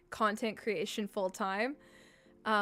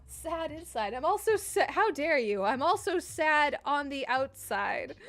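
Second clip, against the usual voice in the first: mock offense; 3 semitones higher than usual.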